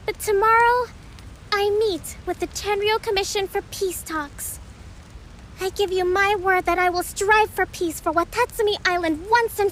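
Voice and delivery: projected, formal address to a crowd; formal speech. Acted. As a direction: speak up to the gathered army. Kokomi gives a feast speech.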